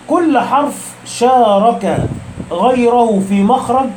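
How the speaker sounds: slow, measured reading of a scholar's quote; slow quoted recital. Shown as a demonstration. Teacher quoting Ibn al-Jazari to students, slow and measured. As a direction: read the quote slowly and deliberately.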